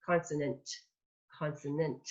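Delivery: crisp final T on consonant, soft and clear; clean consonants. Shown as a demonstration. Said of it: "I love to have clean consonants".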